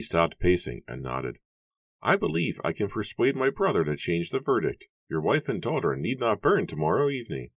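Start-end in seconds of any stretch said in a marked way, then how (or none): 2.0-7.5 high-pitched, measured persuader; smooth-talking Matthew. A narrator's reading. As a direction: offer reassurance in a much higher register.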